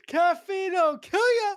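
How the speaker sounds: high, slow hammed-up quote; imitated villain's line. Co-host correcting the film quote, slow villain imitation. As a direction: draw it out like a cartoon villain.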